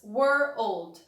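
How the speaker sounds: put-on were old run together into one word; blended world. Shown as a demonstration. Teacher builds world from were plus old for students. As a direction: glide were into old, then join them. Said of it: "você junta essas palavras".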